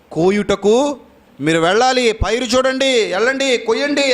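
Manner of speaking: acted rallying order, pitched well up; urgent command. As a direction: send them out with ringing, high commands. Preacher acts out God's urgent command.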